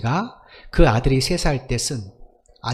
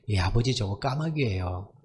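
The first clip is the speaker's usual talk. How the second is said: mildly tender, softer retold answer; affectionate; 3 semitones lower, 5 dB quieter than usual. Son answering his aged father, affectionate. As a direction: answer softly, as a patient son. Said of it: "아들이 다정하게".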